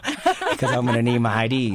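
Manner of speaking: laughing through it. Retold or imitated. Funny punchline of father's quote.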